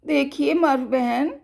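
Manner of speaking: lightly voiced animal, fast and earnest; pleading animal. Forest animal pleading with sister Murph, fast and earnest.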